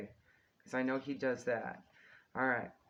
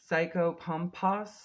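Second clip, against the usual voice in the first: wearing a retainer; 5 semitones higher, 6 dB louder, slower than usual. Real, not acted. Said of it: "so hard to say with my retainers in".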